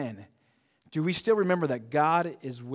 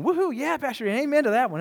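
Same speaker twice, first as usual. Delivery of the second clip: mock cheer; 10 semitones higher, 5 dB louder than usual. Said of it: "not everybody's going".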